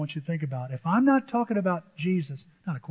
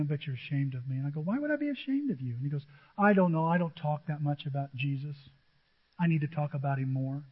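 hushed confession; 4 semitones lower, 8 dB quieter than usual. Retold or imitated. Retells a friend's confession.

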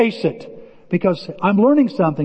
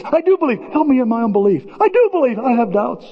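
desperate father; 6 semitones higher than usual. Retold or imitated. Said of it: "he says".

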